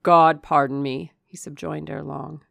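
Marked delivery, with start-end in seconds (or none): 0.0-1.1 loud, solemn appeal to heaven; fervent suitor. A narrator's reading. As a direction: call on God with force. Suitor's forceful oath.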